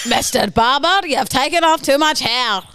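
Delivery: botched German drifting into Scottish; a German accent that comes out Scottish; Scottish-sounding accent. Acted. Unhappy customer to barber, Scottish-sounding German.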